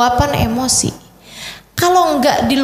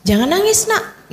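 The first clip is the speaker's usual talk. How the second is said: put-on parent hushing child; 6 semitones higher than usual. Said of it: "kita nggak bolehin".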